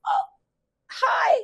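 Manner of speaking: hammed-up socialite hello across the room; gushing greeting. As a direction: call out a delighted hello. Acting Diane greeting people gaily.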